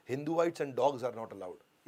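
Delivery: very slow, each word spaced out; slow sign reading. Retold or imitated. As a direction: read the board word by word, very slowly. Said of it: "बड़ा-बड़ा board लगा दिया".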